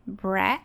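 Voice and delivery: "bre" hit firmly as the strong syllable; strong, isolated "bre" from umbrella; stressed syllable. Shown as a demonstration. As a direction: punch "bre" on its own. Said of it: "a sílaba mais forte".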